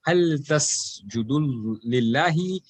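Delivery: slow "lillahi" with a light, thin L; flat Allah. Shown as a demonstration. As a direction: keep the L in "lillahi" flat, unrounded. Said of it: "Allah is flat".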